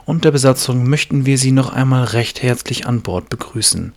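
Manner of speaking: formal loud in-flight announcement; pilot voice. Acted. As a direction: announce it like a captain over the PA. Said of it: "Du hast eine richtige Pilotenstimme". (förmliche Pilotenstimme bei der Bordansage)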